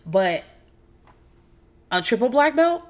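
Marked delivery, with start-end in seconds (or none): 1.9-2.8 raised, incredulous question; sarcastic disbelief. Acted. Doubting the husband's claim, mockingly incredulous. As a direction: scoff at the triple black belt. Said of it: "I'm about to be an asshole".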